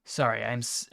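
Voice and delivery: stumbling and cutting off words; stuttering. Real, not acted. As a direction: trip over the words, stuttering. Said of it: "I'm stuttering".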